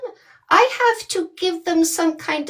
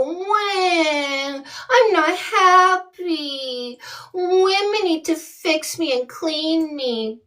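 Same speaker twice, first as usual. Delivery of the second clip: mock crying whine; 3 semitones higher, slower than usual. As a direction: whimper it like a sulking man-child. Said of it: "and I go".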